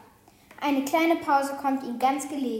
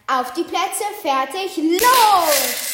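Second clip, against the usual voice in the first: rising call of a raven, loudest on los; croaking raven; 4 semitones higher, 9 dB louder, much slower than usual. A narrator's reading. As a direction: croak out the start like a little raven. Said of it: "Krächzte der Rabe". (krächzender Rabe ruft den Start)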